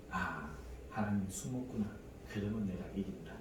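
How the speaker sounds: hushed inner voice, quick at the end; softly muttered thought. Retold or imitated. Preacher voicing his own sly thought, hushed and quick. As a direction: say it low to yourself, a little sly.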